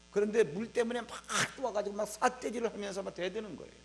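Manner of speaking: ordinary delivery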